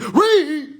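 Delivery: shouts it loud and high, cracking up; laughing shout. Real, not acted. Telling his audience to read, laughing loudly. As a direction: bark the word through laughter.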